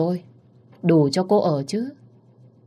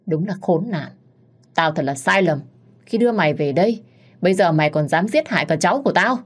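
angry scolding. Acted. Mother-in-law beating, scolding.

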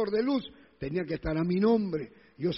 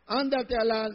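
cut-off mock curse, higher pitched; imitated swearing; 4 semitones higher than usual. Preacher demonstrates words Christians shouldn't say, mock cursing. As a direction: start the insult and stop short. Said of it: "No te debe salir".

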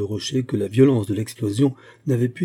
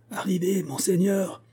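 calling out; 9 semitones higher than usual. A narrator's reading. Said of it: "crièrent les Bretons".

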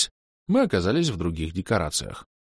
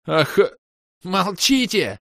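higher, louder angry shout; villain yell; 11 semitones higher, 4 dB louder, much slower than usual. Acted. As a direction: snap at them to shut up. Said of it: "заорал Видер".

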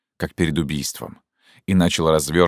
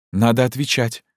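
put-on agitated young woman; 7 semitones higher than usual. Zhenya confronts Fyodor Ivanovich about the order, urgently. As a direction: voice raised higher, urgent and pleading.

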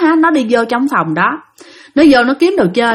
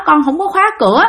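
higher-pitched child's protest, lightly acted; frightened child; 7 semitones higher, faster than usual. Crying child tells the family the door wasn't locked, upset protest. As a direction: imitate an upset child denying it. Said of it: "nó khóc, thấy ghê lắm".

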